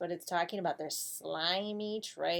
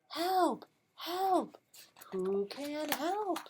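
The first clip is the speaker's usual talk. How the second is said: duck calling for help; 7 semitones higher, much slower than usual. Acted.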